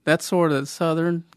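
slow, drawn-out Southern accent attempt; Southern gentleman accent. Cohost asked to do Southern gentleman, tentative Southern accent. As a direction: try a Southern gentleman drawl on the spot. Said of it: "You got, you got the Southern".

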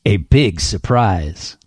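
slow, weighty movie-trailer read; slow dramatic read. Pretend. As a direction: drag out each word for drama. Reading the book blurb dramatically.

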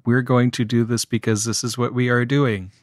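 even, droning monotone rhythm; monotonous line reading. Retold or imitated. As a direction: recite it on one note, evenly. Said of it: "was just kind of in this monotonous".

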